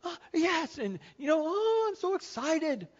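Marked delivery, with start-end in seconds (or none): 1.5-2.9 high, drawn-out imitation of glee; hammed-up giddy delight; mock excitement. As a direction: gush like a thrilled child. Imitating thrilled child.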